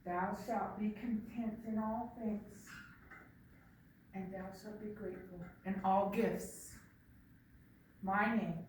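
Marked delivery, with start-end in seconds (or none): 0.1-6.8 slow solemn decree; solemn grandfather pronouncement. Acted. Grandfather speaking the rule, slow and solemn. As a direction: proclaim it like a wise elder.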